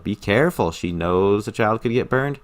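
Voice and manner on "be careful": understated caution from a loving mom; mild, caring warning in an everyday voice; tender motherly warning. Retold or imitated. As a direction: gently warn a child, imitating the mother. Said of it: "She's wanting to warn her child".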